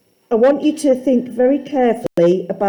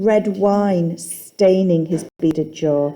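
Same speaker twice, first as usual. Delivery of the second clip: slow quoted line; 2 semitones lower, slower than usual. Shown as a demonstration. Teacher quotes the line slowly for the class to discuss. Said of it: "Tell me about the line".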